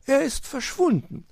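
very high bird voice; high-pitched, aggrieved magpie; indignant magpie. A narrator's reading. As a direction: announce it in a high squawk. Magpie reports fox missing.

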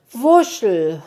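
erleichtert. A narrator's reading. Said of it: "war der Wichtel erleichtert".

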